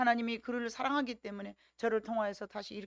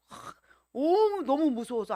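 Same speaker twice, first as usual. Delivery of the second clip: afraid; 5 semitones higher, 7 dB louder, slower than usual. Retold or imitated. Acting out the possessed person's terror.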